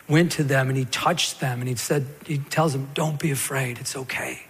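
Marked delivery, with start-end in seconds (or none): 2.9-4.4 soft comfort, fading quieter; gentle reassurance. Acted. Preacher voices Jesus calming frightened disciples, soft reassurance. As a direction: soothe them, letting the voice drop away.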